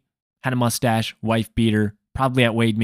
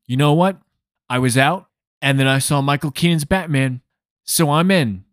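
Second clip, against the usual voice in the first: mock excited moviegoer; 3 semitones higher than usual. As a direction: play the talkative woman won over. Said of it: "deepening my voice when I'm imitating her".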